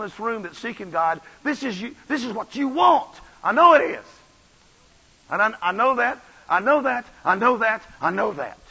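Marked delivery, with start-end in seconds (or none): 1.4-8.6 emphatic preaching. Real, not acted. Preacher insisting to congregation.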